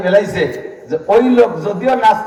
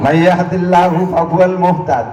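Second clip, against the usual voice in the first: Quran recitation. Acted. Preacher quoting the verse to the gathering, chanted.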